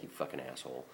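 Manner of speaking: a bitter aside, barely voiced; muttered curse. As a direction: curse him so he can't hear. Cursing the driver under breath.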